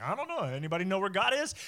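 high-pitched oblivious wondering; mock cluelessness. Mocking the Israelites beside the smoking mountain, mock cluelessness. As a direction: play dumb, pitch jumping up.

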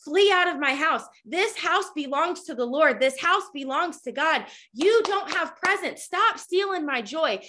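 imitating a firm, emphatic rebuke; commanding the enemy. Woman ordering the enemy out of her house, imitated commanding tone. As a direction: retell it as a forceful order, hitting the openings. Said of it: "she literally tells the enemy".

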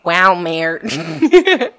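Walmart as a British "waumed"; British accent. Shown as a demonstration. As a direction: drop the r in Walmart, British style. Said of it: "really thick accent".

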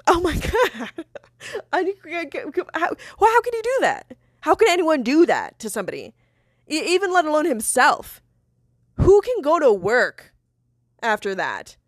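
high, exasperated and stumbling; appalled disbelief. Real, not acted. Appalled at what boyfriend did.

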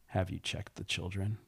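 quiet, even, slightly creepy caller voice; understated creepy monotone caller; low creepy monotone. Acted. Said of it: "in a low, silent, most monotone voice, but with some creepiness in it".

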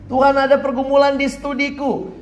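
high, held pleading call; crying out to God. Acted. Student prays about struggles in studies, high imploring cry.

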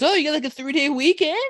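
imitating the SoCal barista's chirpy surprise. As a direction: play the bubbly SoCal barista. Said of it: "she sounds very SoCal".

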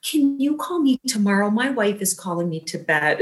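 gently imitating a sweet man, pitch starting high; a kindly, mild request. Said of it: "in his very sweet voice".

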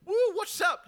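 high loud carefree whoop; cool dude greeting. Retold or imitated. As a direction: call out like a laid-back surfer. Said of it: "He's just on there just".

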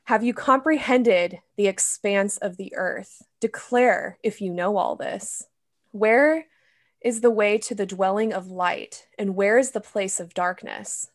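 measured, solemn Bible reading; scripture reading. Acted. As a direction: read it like scripture aloud. Reads Job 38 aloud.

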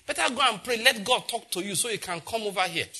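preachy churchgoer. Retold or imitated. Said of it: "That's what he will say".

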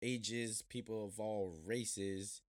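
ringmaster. Acted. Podcast opening, showman announcement.

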